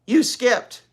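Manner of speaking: put-on high, loud childish protest; child interrupting. Little sister interrupting her reading sister. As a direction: jump in like a bossy little girl. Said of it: "interrupted Ramona".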